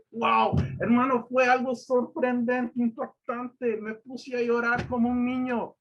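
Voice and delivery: high, loud, drawn-out exclamation; overwhelmed amazement. Real, not acted. Preacher telling the congregation how God answered him, overwhelmed amazement. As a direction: testify in awe, pitched far up.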